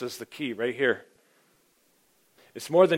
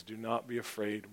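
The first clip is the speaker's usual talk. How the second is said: soft reassurance; 2 semitones lower, 10 dB quieter than usual. Acted. Jesus comforts terrified John.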